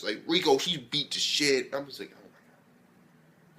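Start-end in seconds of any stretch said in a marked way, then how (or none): 2.1-3.6 barely audible, drawn-out whisper; stunned reaction. Retold or imitated. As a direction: whisper it slowly in mock shock. Retelling own stunned reaction.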